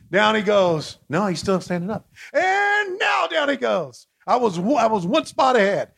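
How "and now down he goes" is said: slow, drawn-out, much higher; excited call. Real, not acted. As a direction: stretch it out like a big TV call. Match call, big moment.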